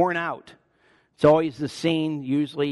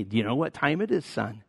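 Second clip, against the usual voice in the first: mock Sinclair Ferguson. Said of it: "like Sinclair Ferguson did to me".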